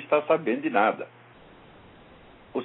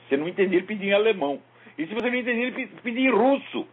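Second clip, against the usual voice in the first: rising excitement; 11 semitones higher, faster than usual. Retold or imitated. Escalating list of beggar's languages.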